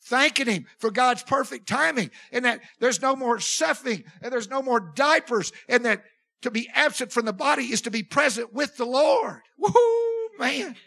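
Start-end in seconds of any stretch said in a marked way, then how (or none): 3.0-9.4 rising, louder praise with a crying edge; preaching through tears of joy; tearful praise. Real, not acted. Preacher rejoicing over his late brother, tearful and louder. 9.6-10.8 high, loud whoop of joy; joyful woo-hoo. Real, not acted. Preacher whooping for joy at brother's passing, high and loud. Rejoicing in the death room.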